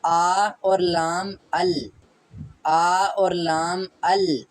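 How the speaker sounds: आ और लाम अल drawn out slowly, sound by sound. Shown as a demonstration. Teacher sounding out a Korean syllable for students. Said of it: "यानी कि लाम की".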